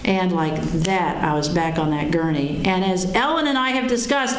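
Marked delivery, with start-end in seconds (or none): none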